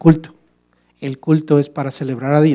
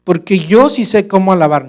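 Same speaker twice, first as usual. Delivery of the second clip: loud, higher-pitched mock arrogance; self-exalting boast; 4 semitones higher, 8 dB louder than usual. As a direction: boast loudly as the one who knows best. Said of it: "yo estaría exaltándome a mí mismo". (presumido, en voz alta y aguda)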